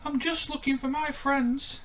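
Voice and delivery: Stanley. Acted. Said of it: "said Stanley".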